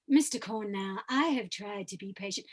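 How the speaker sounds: low chest voice with some pharynx; chest and pharyngeal. Shown as a demonstration. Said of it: "chest voice and a little bit of pharyngeal voice".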